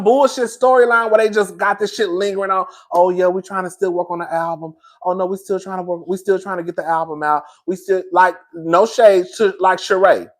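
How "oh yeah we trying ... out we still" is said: quick, softer mimicked stalling; lightly imitating someone stalling; mock excuses. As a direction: rattle off tired excuses in an undertone. Mimicking the endless album excuses.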